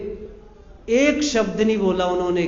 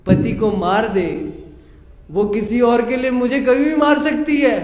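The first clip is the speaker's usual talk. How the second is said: firm rebuke; 3 semitones higher, 5 dB louder than usual. Acted. Sadna rejects her firmly.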